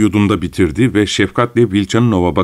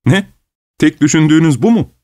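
high-pitched, spiteful disbelief; indignant, pitched well up; 9 semitones higher, 4 dB louder than usual. A narrator's reading. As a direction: throw the question out with scorn. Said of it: "diye güldü Vilchanov hınçla".

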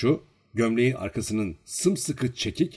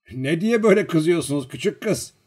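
gentle, higher-pitched coaxing question; soft voice; 7 semitones higher, 5 dB louder than usual. A narrator's reading. Servant appeasing the angry girl, gently coaxing. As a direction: soothe her with a question. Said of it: "dedi yumuşak bir sesle".

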